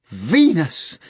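loud triumphant shout; victorious cry. A narrator's reading. Natasha triumphs over the hog, loud cry. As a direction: crow in triumph. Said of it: "Natasha cried victoriously".

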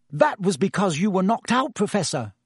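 high, earnest explanation. A narrator's reading. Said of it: "said Hermione earnestly".

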